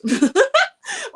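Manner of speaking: a loud, high laugh bursts out; high burst of laughter. Real, not acted. Streamer laughing at her fitness twist, loud high laugh.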